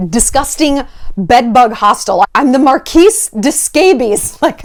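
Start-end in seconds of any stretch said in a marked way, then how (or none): 2.3-4.4 lightly hammed-up grand title, slow and a bit higher; mock nobility. Homeless king proclaiming his title, lightly mock-regal. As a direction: announce yourself as a ridiculous aristocrat, slowly. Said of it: "He has to be, like, the king".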